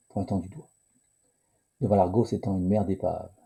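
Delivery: measured read-aloud of an adventure text; story narration. A narrator's reading. Game player reading the sea-of-wreckage adventure aloud, narration. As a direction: read the story out evenly, phrase by phrase.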